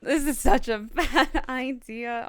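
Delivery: laughing while speaking. Real, not acted. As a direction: chuckle through it.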